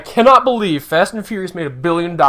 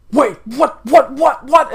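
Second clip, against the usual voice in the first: 1 confused surprise; 8 semitones higher, 3 dB louder, slower than usual. Pretend. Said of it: "Captain America will be like".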